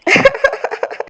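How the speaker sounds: high, breathy sobs; hammed-up weeping; acted sobbing. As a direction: sob in pulses like a wronged bride. Daughter-in-law lamenting her marriage.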